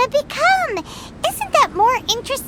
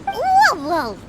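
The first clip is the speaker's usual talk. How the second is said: startled whoa. Acted. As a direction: pull them up short in alarm. Paimon objects in alarm.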